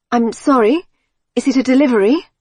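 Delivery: put-on woman with a light Germanic accent; hint of a Scandinavian accent; slight German or Scandinavian accent. A narrator's reading. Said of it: "There was a slight accent".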